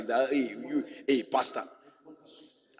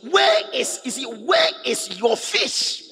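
much higher, probing mock questions; teasing Jesus; 7 semitones higher, 3 dB louder, slower than usual. Jesus teasing skilled fishermen, high mocking questions. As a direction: needle them about the missing fish.

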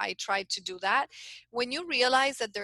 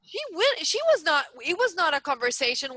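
much higher and louder, lit up with excitement; excited retelling; 7 semitones higher, 5 dB louder than usual. Real, not acted. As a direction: relive the big moment, voice soaring. Retelling the watermelon smash excitedly.

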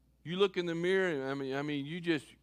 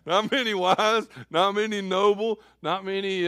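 quoting it again through a chuckle; laughing; 4 dB louder than usual. Real, not acted. Pastor joking about himself, laughing through the verse.

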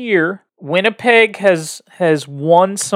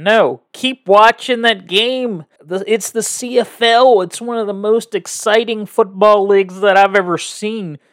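excited; 3 semitones higher than usual. Real, not acted. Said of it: "hear the excitement in your voice".

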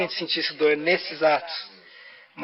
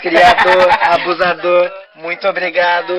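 robot voice; 6 dB louder than usual. Acted. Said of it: "essa voz de robô".

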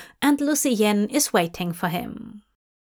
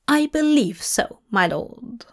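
Lucienne, worried aide; 3 semitones higher than usual. Acted.

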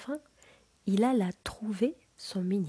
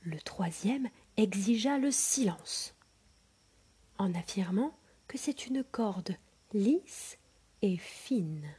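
whispered storytelling. A narrator's reading. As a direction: breathe the tale to a sleeping child. Whispered narration.

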